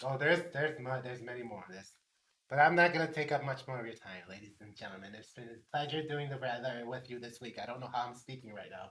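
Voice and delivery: lightly voiced Gay Negan. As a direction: purr it low and soft. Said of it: "He's like Gay Negan".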